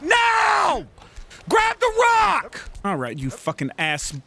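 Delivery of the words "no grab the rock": high, slow, loud urgent yell; frantic shout. Real, not acted. Gamer yelling at the climber to grab the rock. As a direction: scream the order.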